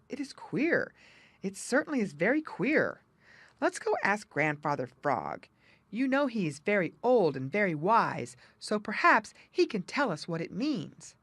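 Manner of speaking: lightly voiced puzzled muskrat. Jerry puzzled.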